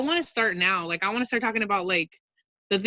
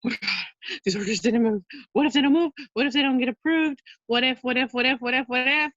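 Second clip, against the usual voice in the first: high, loud, frantic what-ifs; imitating own panic, voice climbing and louder; freaking out; 5 semitones higher, 3 dB louder than usual. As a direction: relive the panic call to a friend. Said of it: "I was freaking out".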